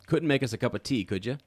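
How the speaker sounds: badly faked British accent, starting high; lightly hammed-up British request; terrible British accent. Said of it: "my terrible British accent".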